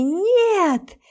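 high, loud cry of horror; a sudden high wailing no; anguished scream. Acted. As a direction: scream no as if seeing death. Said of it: "Плачу навзрыд".

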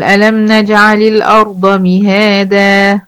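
slow measured Quranic recitation. Shown as a demonstration. تلاوة قرآنية بطيئة. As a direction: recite the verse slowly to the student. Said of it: "أنا لما بقف على كلمة مهادا".

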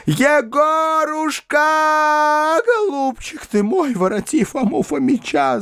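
shrill high wail, dragged out; wailing cry. A narrator's reading. Old mother on her knees begging her son, high wail. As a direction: beg on your knees, wailing. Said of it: "закричала она".

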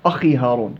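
"أخي" with a thick, rounded khaa; over-heavy khaa. Shown as a demonstration. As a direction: weigh down the خ in "أخي". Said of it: "لا، مش أخي هارون".

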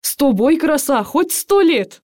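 cheeky soldier flirting with his nurse; bold Cossack. A narrator's reading. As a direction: swagger it out like a dashing Cossack. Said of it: "браво отвечает он".

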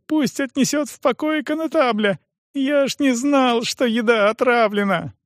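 put-on high, pleading young voice; frightened cripple. Стефан оправдывается перед допросом, высоким испуганным голосом.

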